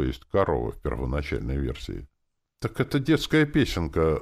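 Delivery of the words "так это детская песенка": high-pitched exclamation of discovery; exclaiming. A narrator's reading. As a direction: blurt it out in surprised recognition. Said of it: "воскликнула у меня в сознании Настасья".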